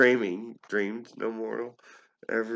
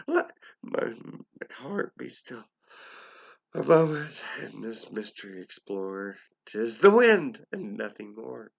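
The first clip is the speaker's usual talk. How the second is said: wavering voice. Acted. Speaker steadying himself at the door.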